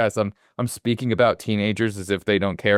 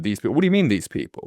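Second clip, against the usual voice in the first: incredulous; faster than usual. Retold or imitated. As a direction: repeat "these people" as if you can't believe it was said. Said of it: "and you go".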